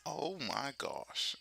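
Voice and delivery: drawn-out "oh my gosh"; signature catchphrase. Shown as a demonstration. Streamer demonstrating sounds uniquely theirs, signature catchphrase. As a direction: stretch it out as your own trademark saying. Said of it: "sounds that are uniquely you".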